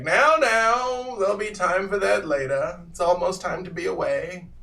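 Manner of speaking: put-on old man calming them. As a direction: hush them along. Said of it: "and is like".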